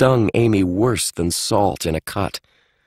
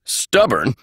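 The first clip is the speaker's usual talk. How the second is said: higher, indignant outburst; mild shout; 4 semitones higher than usual. Acted. Eisenhower Holt shouting at the will, higher and indignant. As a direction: bark the word back. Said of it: "Eisenhower Holt shouted".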